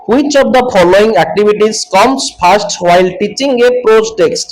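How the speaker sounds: slow, deliberate question read-out; reading a question aloud. Acted. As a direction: read the exam question word by word, very slowly. Reads exam question aloud. (ଧୀରେ ଧୀରେ ପ୍ରଶ୍ନ ପଢ଼ିବା)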